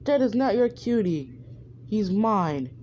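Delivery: jealous girlfriend snapping at a rival, mock angry; angry Hinata. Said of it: "Hinata gets angry and says".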